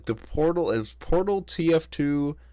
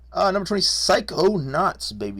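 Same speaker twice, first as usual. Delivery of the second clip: hype announcement; 8 semitones higher, 4 dB louder than usual. Real, not acted. Announcing the next game excitedly.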